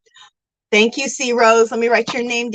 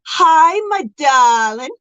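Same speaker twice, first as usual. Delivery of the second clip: light, affectionate imitation of a Southern drawl; drawn-out, lightly Southern-accented endearment; 4 semitones higher, 4 dB louder, much slower than usual. Streamer imitating Granny D's greeting, light Southern accent. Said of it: "her little Southern accent".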